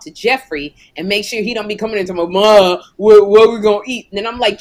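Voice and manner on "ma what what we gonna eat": loud imitation of a child calling out. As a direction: holler for Ma like an interrupting kid.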